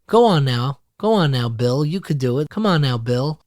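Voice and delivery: lightly imitated sweet Southern coaxing; sweetest voice. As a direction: coax him gently, like a kind grandma. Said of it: "said in the sweetest voice".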